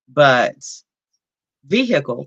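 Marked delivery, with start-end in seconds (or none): 1.7-2.2 "vehicle" said VEE-hick-ul; own regional pronunciation. Shown as a demonstration. Woman showing how she says "vehicle", own regional pronunciation. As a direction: demonstrate "vehicle" with a sounded h. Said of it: "that's how I say".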